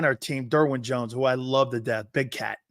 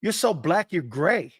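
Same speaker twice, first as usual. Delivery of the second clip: Jerome Brown; 2 semitones higher, slower than usual. Retold or imitated. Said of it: "and he goes".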